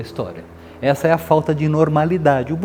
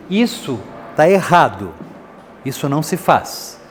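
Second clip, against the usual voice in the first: slow, solemn reprimand; weighty adult setting a limit; 2 semitones higher than usual. Acted. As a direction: lay down the rule gravely, word by word. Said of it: "é algo assim meio solene".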